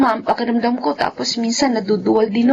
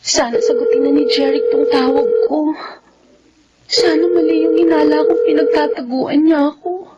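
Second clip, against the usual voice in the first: tearful worry. Acted. Worried call waiting for Jeric.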